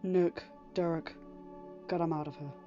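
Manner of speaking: gentle order. Acted. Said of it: "order was as gentle".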